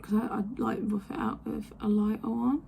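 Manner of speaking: talking while doing lip liner; while putting on lipstick. Real, not acted. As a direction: lips half-stretched while lining them. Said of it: "It's really hard to talk and do lip liner at the same time".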